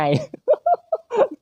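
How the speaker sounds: high breathy burst of laughter. Real, not acted. Gamer laughing at the zombie waking up, high laugh.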